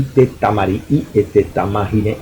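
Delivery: te tamari i et te tamari ne with a long drawn i; Tahitian pronunciation. Shown as a demonstration. Lecturer demonstrating Tahitian words to the class, careful pronunciation. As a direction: say te tamari i with each syllable open. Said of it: "ça se dit".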